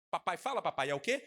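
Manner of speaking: mock preacher. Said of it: "Ainda faz assim".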